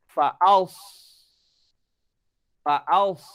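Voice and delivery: Faals with heavy emphatic s, cheeks puffed; sad sound puffed cheeks. Shown as a demonstration. Teacher demonstrating Faals with puffed cheeks. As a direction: say Faals with rounded lips and full cheeks. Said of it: "kalau sad, pipi kembung, bibir sedikit memoncong".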